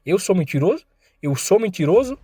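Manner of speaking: taunting while slapping, building to fury; mounting anger. Acted. Voltou a bater de leve na cara.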